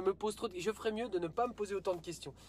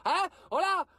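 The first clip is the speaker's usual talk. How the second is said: higher-pitched parody of retailers' excuses; lightly hammed-up spokesman, pitched up; mock retailer spokesman; 5 semitones higher than usual. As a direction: imitate a retailer explaining things to the public. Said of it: "alors qu'est-ce qu'ils ont dit?".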